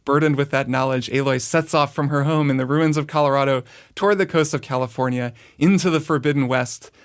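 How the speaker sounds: dramatic backstory narration; dramatic intro. Acted. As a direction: read it like a movie trailer. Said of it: "Dramatic intro".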